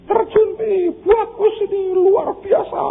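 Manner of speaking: put-on children urging their father to dive, shouting; kids shouting. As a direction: yell to Dad to jump in. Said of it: "anak-anak teriak-teriak".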